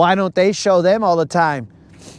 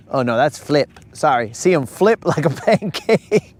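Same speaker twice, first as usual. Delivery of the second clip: self-correcting with a laugh. Real, not acted. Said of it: "Not flop, flip".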